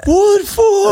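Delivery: very high, drawn-out wail; mock screaming. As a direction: scream it like a hammed-up breakdown. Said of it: "som skriker". (overdrevet, skingrende skrik)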